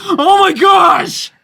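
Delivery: high, slow gushing gasp; mock starstruck fan. Daughter mocks a starstruck fan meeting a celebrity, high slow gush. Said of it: "You don't have to be like".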